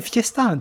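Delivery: fiesta said the French way with a clear s; French pronunciation. Shown as a demonstration. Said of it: "dites-le en français". (fiesta prononcé à la française, s bien sifflé)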